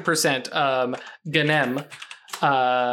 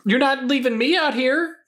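indignant storm spirit; 10 semitones higher than usual. Acted. Spirit protesting being left.

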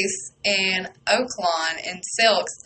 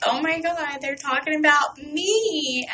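blushing; 6 semitones higher than usual. Retold or imitated. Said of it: "just blushing".

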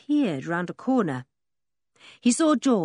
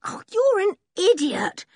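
exasperated; 13 semitones higher, 4 dB louder than usual. A narrator's reading.

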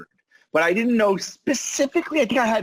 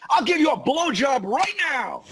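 mock child shout; 6 semitones higher than usual. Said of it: "she goes".

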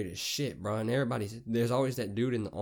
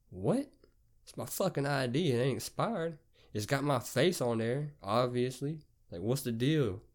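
higher-pitched, incredulous protest; indignant disbelief; 4 semitones higher than usual. Retold or imitated. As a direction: act out being baffled by the refusal. Acted argument with store clerk.

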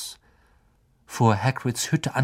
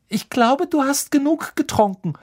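much higher, stern rebuke; 3 dB louder than usual. A narrator's reading. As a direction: scold firmly. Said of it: "sagte Hermine streng".

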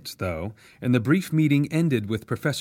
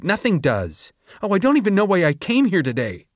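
much higher and louder, righteous rage; student raging at the professor about rights; furious outburst; 6 semitones higher, 3 dB louder than usual. A narrator's reading. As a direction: hurl every accusation at her. Sejanus confronts Doctor Gall.

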